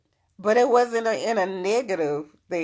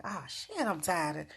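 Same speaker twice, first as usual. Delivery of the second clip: a hammed-up tired whine; mock weary complaint; 5 semitones higher than usual. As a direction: play the fed-up student griping about another lesson. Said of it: "don't look at it like".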